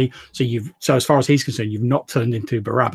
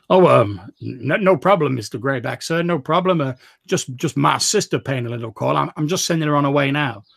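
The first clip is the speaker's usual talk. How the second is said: flustered, higher and louder; nervous stammer; 3 semitones higher, 4 dB louder than usual. Acted. Jasper covering for his sister to Mister Greyback, flustered stammer. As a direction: scramble to reassure the boss.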